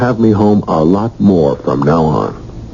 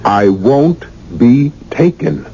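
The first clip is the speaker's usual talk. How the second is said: indignant; 9 semitones higher, slower than usual. Acted. Husband refuses angrily.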